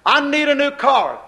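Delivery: pleading loudly for a car; mock whining prayer for a car; begging prayer. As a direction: beg God like a greedy child. Preacher acts begging prayer for car.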